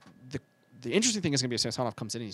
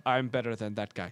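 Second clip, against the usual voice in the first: put-on a weak, barely-there Russian accent; lightly mock a Russian goalie bragging; terrible Russian accent; 3 semitones lower than usual. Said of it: "that was a terrible Russian accent".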